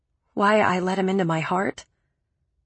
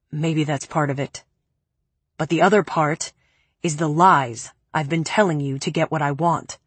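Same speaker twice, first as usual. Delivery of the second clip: a hint of a low, cold man; cool, lower man's voice; lightly lower male voice; 4 semitones lower than usual. Preppy confessing.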